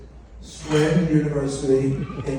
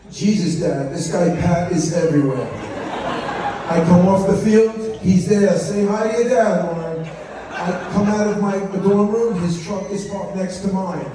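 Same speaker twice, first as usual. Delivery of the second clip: higher-pitched fed-up daughter voice; annoyed daughter; 5 semitones higher than usual. Retold or imitated. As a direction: complain like an exasperated teenage girl. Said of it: "she was mad".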